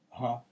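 ГА with an audible voiced h; звук «га». Shown as a demonstration. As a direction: sound the h in ГА. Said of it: "а надо произнести". («га» с придыхательным «г»)

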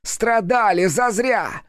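high, slow furious cry; demon yelling. A narrator's reading. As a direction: hammer every зазря. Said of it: "вновь заорал он".

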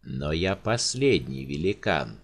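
low, slow and numb; the giant stunned by his fate; dazed giant. Acted. Giant numbly tells the countess he is the last. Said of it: "тупо уставился в никуда Рауль".

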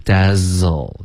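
Dazzle with a buzzing, voiced z; teacher demos the voiced z. Shown as a demonstration. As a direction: make the z in Dazzle vibrate. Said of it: "这个Z一定要震动".

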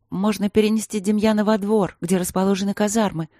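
a shy, unsure suggestion to the men; hesitant. Acted. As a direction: offer it timidly. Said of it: "неуверенно предложила Полина".

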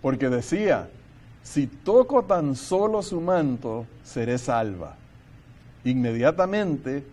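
solemn public reading, measured phrase by phrase; scripture reading. Acted. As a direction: read the passage aloud with deliberate weight on key phrases. Reads scripture passage aloud.

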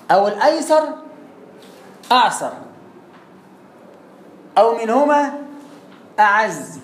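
teacher dictating the ruling to students. Acted. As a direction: dictate phrase by phrase for students to write. Dictating the text.

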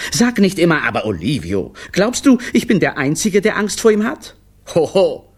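high, fearful protest; shy away from the big boss; anxious clown. A narrator's reading. Clown tells his wife he fears the director, high and anxious.

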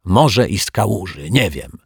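kałuży muttered back, offended, with the stress on może; grumbling retort. Acted. Offended janitor snapping back at the detective, grumbling. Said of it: "odburknął".

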